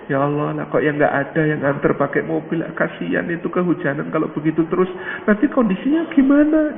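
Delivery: soft lament climbing high at the end; mock tearful. Wife pitying the rain-soaked neighbour, mildly tearful. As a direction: fret softly, as if crying for a neighbour.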